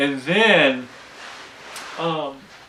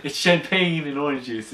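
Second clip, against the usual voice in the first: smooth it over like a charming suitor; Jock, correcting; 3 semitones higher than usual. Retold or imitated. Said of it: "And he's like".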